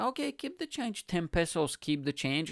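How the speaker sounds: lightly voiced girlfriend, opening high; imitated girlfriend. Girlfriend telling the shirt seller, lightly imitated and high at first.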